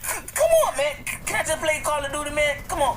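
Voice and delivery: stuttering whine. Acted. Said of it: "Mister Stutter".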